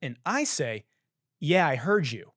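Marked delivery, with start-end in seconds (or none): 1.4-2.3 retold irritated retort. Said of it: "Like that".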